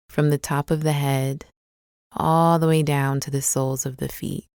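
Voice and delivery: calm, unhurried meditation guide with long pauses; guided meditation. Acted. Guide leading listeners through a body scan, calm guided meditation. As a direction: ease them gently into the body, leaving space between phrases.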